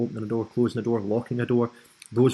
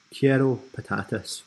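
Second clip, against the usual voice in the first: Spanish words in an amateur accent; poor Spanish accent. Shown as a demonstration. Tutor showing viewers a translation, in a poor Spanish accent. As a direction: attempt Spanish with a learner's imperfect accent. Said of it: "in my poor Spanish accent".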